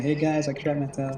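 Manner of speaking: usual speaking voice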